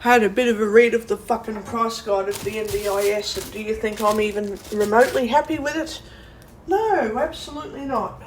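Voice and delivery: loud angry rant. Real, not acted. Ranting alone at the price guide.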